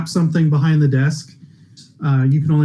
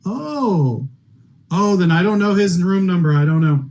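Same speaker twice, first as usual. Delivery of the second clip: flustered backpedal, lightly voiced; flustered clerk. Clerk confronted by two wives, flustered. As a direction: stammer it like a caught-out clerk. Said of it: "and he goes".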